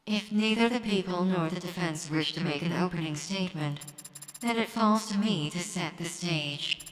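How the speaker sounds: lightly robotic court judge; a hint of machine monotone. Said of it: "I got a robot voice".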